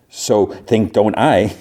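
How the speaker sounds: drawn out, deliberately paced; slow retold comeback. Driver fumbles his comeback to a rival, slow and deliberate. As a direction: stretch out the muddled retort slowly.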